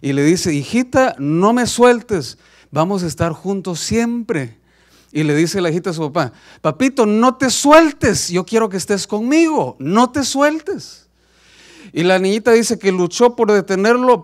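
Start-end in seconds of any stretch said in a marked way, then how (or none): 0.5-4.6 high, slow, drawn-out plea; pleading father. Acted. Padre suplica a la hija. 6.6-11.1 put-on high, slow, childlike begging; a daughter begging her papa to hold on; pleading little girl. Niña suplica al padre.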